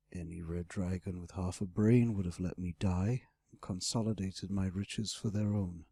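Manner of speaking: low dragon voice; weighty, low-pitched dragon reproach; great red dragon, reproachful. Acted. Dragon questioning his rescuer's choice, low and reproachful. Dragon figure in narrated dialogue.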